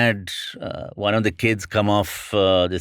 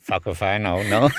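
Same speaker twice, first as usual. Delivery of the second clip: laughing. Real, not acted. Laughing at the question.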